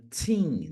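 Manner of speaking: put-on TEEN with a long clear ee, falling; stretched-out TEEN; teen ending. Shown as a demonstration. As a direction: draw out the ee in TEEN. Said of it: "todos eles terminam com".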